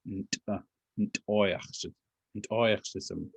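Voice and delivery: "ntoyachsism" with the T popped after the N; quiet demonstration of the popped T in "ntoyachsism". Shown as a demonstration. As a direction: pop the T in "Nt-", then build up to "ntoyachsism". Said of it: "like a popped T".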